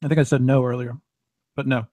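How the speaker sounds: talking while eating; words round a bite of food; mouth full. Real, not acted. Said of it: "Sorry, I'm eating".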